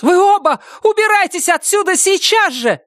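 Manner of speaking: very high shouted command; shouting. Acted. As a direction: order them out at full cry. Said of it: "закричала Доркас". (крик)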